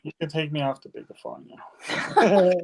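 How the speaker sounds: chuckling through the line; laughing. Real, not acted. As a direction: laugh as you say it. Laughing while asking.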